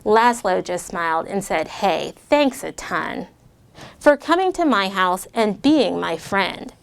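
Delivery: lightly voiced read-aloud to kids; a gentle rhyming storytime read; story narration. A narrator's reading. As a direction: read it like a picture book. Reads rhyming story to children.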